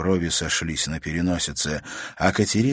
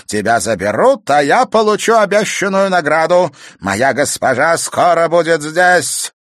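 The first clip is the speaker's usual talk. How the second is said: much higher, louder triumphant crone; gloating witch; 10 semitones higher, 8 dB louder than usual. Acted. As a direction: gloat over your reward. Villain gloating monologue.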